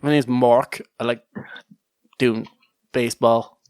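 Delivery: put-on bland American accent. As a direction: try a generic American guy introducing himself. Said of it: "a bland, nondescript American accent".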